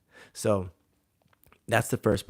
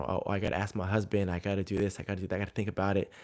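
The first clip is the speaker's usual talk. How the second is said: quick, slightly softer mimicked excuses; rattled-off excuses; 4 dB quieter, much faster than usual. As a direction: rattle off a client's excuses in passing. Voicing woman's rattled-off excuses.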